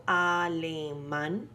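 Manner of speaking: alemán, slow, leaning on the last syllable man; alemán with the weight at the end; stress on MAN. Shown as a demonstration. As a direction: stretch out alemán and land on man. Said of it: "man is the sílaba tónica".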